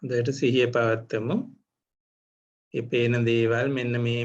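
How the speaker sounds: measured meditation guidance with long pauses; guided meditation. Real, not acted. Teacher leads meditators to notice seeing, guided meditation. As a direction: guide them phrase by phrase, leaving room to observe.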